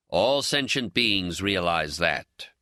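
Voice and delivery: slow, stern pronouncement. Acted. Ben lecturing his friend on life, slow and stern. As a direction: lay it down slowly like a stern teacher. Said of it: "he says sternly".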